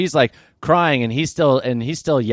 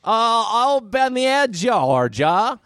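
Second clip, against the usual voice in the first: nervous stranger; 8 semitones higher, much slower than usual. Acted. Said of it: "she's like".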